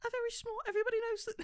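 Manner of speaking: tiny, very high British voice; fake British accent. Agreeing they're small, very high fake British accent. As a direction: squeak it in a mock-British accent. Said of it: "I'm British".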